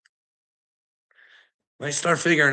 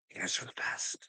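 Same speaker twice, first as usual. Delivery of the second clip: whispered, mocking; sarcastic whisper; 15 dB quieter than usual. Real, not acted. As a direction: hiss it low like a snide secret. Sarcastic aside.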